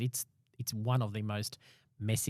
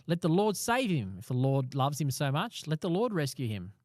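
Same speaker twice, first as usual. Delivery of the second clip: mildly jeering, measured taunt; sneering; 4 semitones higher than usual. Acted. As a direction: draw out the scoffers' mockery. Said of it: "They sneer and shake their heads".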